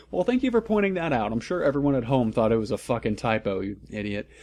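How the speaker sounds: fast, sarcastic jab at the author; sarcastic aside. Real, not acted. Reader mocks the author's joke, fast and sarcastic. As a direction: roll your eyes at the text.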